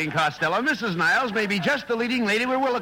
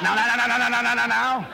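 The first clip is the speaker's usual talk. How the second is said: calming now-nows; 3 semitones higher than usual. Acted. Calming a quarrel.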